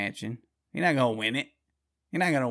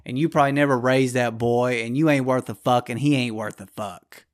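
angry tirade; 5 dB louder than usual. Retold or imitated. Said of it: "It's like".

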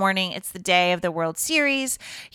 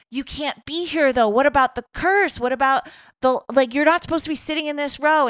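flustered protest; 6 semitones higher, faster than usual. Retold or imitated. He protests in retold reunion.

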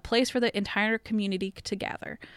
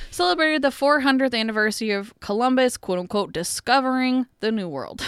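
sarcastic, higher and louder; rolling eyes; 3 semitones higher, 5 dB louder than usual. Shown as a demonstration. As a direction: read it with a huge eye roll. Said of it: "was gonna do a huge eye roll here".

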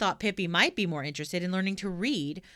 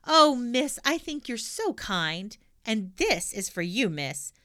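bright, beaming and grateful; 4 semitones higher, 4 dB louder, slower than usual. Acted. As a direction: say it beaming with delight. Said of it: "beaming brightly".

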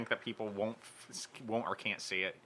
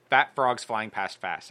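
slow careful; 4 dB louder, slower than usual. Shown as a demonstration. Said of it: "I can't even say that fast".

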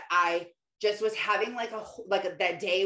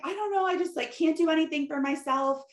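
high, pleading, overwhelmed outpouring; much higher, tearful venting rush; retold teary rant; 6 semitones higher than usual. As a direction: replay the breakdown on the phone to husband, voice pitched up. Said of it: "I just instantly started crying".

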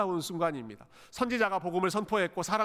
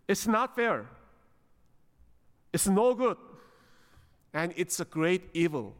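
protesting to God; much slower than usual. Acted. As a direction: object point by point, as Jonah arguing. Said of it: "하나님께 따지는 겁니다". (또박또박 따지며 항의하는 투)

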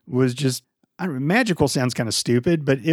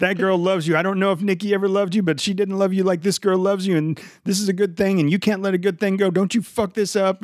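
a lightly voiced fatherly pep talk, slightly raised; Robert De Niro pep talk; 6 semitones higher than usual. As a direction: urge him on like a gruff dad who won't let him quit. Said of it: "great pep talk from, from Robert De Niro".

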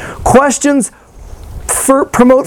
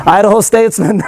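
press secretary voice; slower than usual. Pretend. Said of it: "why do you talk like that".

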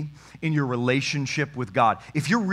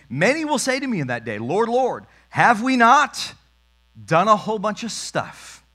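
mock pleading, pitched higher and louder; pleading crowd; 6 semitones higher, 4 dB louder than usual. Preacher mimicking people pleading with Jesus, high and whiny. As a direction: whine it like people begging for credit.

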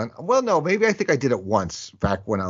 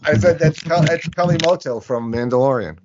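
repeating louder; 6 semitones higher, 4 dB louder than usual. Real, not acted. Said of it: "I didn't hear you over".

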